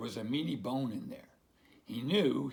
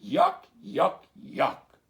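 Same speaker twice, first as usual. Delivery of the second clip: high, loud disgust fading; disgusted yuck; 9 semitones higher, 9 dB louder, much slower than usual. Acted. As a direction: spit out the yucks. Duck's disgust.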